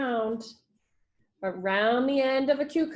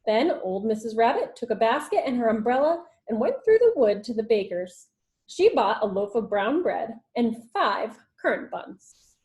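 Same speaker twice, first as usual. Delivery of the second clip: put-on lively read-aloud storytelling for children; story narration. A narrator's reading. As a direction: read it like a teacher to the class. Teacher reads story aloud.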